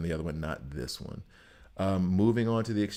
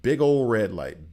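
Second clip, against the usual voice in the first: emphatic warning; 3 semitones higher, 6 dB louder than usual. Real, not acted.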